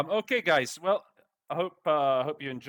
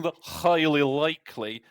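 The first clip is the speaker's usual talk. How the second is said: mock Russian official; 3 semitones higher, 5 dB louder than usual. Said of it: "say the highly likely in a funny voice".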